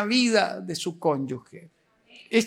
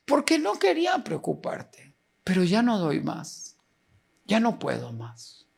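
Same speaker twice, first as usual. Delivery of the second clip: retold tearful confession; 3 semitones lower than usual. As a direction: imitate giving up, voice dropping away. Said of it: "los dos comenzamos a llorar". (confesión relatada, agotada, que se apaga)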